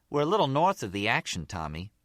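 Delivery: lightly voiced female character, starting high; Gloria, chatty.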